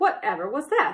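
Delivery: calling out, cried-out exclamation. The badger, making tea, hears a big thud outside; cried out. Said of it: "he cried".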